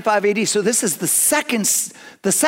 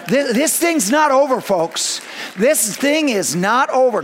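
preaching shout; 4 semitones higher than usual. Real, not acted. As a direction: lift it up over the room. Preacher rallying the congregation.

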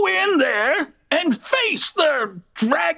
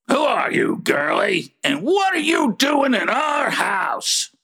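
gruff challenge. Acted. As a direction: confront the intruder. Grumpy confronts intruder.

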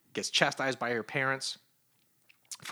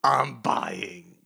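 Mary Jane voice; 4 dB louder, much slower than usual. Retold or imitated. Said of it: "And then Mary Jane going".

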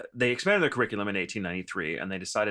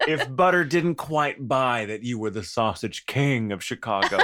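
laughing through it. Real, not acted. Riffing, laughing.

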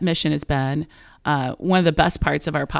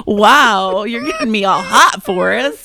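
bright, louder swooning gush; mock swoon; 3 semitones higher, 5 dB louder, slower than usual. Watching Forrest Gump, gushing in a mock smitten voice. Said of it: "it was really like".

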